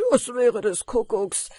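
loud outburst starting high; exclaimed call. A narrator's reading. Miller hears of salad on the bed, exclaiming loudly. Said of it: "rief der Müller".

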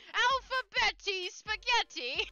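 high, drawn-out mock chef's cry; Chef Ramsay. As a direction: mimic the sound clip with slow, exaggerated syllables. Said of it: "it sounds like Chef Ramsay".

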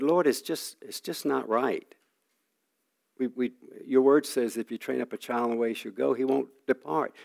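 it's just not right, said as a hurt complaint; father protesting to God over his son, retold; retold plea to God. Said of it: "I'm crying out to God".

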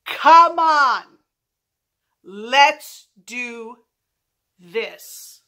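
loud fighting challenge, stretched slow words; retold yell. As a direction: yell a cocky challenge, easing off at the end. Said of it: "what my stupid ass yelled".

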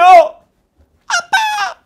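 extremely high, slow drawn-out wail; son's cry. Acted. Son crying out to his father, very high and drawn out. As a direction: stretch the cry to dad endlessly.

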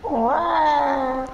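crying. Real, not acted. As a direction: wail it through tears. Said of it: "perché stai a piangere?". (lamento piangente)

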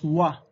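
wa as one gliding "wah" syllable; pronunciation demo. Shown as a demonstration. Teacher showing how O, I is pronounced, pronunciation demo of wa as "wah". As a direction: say wa as a single "wah". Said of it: "se prononce".

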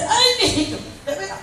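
high-pitched mock wifely exclamation; mimicked wife. Preacher acting a wife answering her husband, high mock exclamation. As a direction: put on a wife's high voice. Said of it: "alguna mujer le dice".

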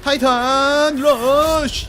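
drawn-out battle cry, high and loud; skill callout shout. Real, not acted. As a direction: yell the move name slowly. Shouting skill name in game.

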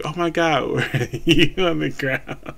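cracking up while quoting the joke; laughing quote. Retold or imitated. A fan retelling the deer joke, laughing.

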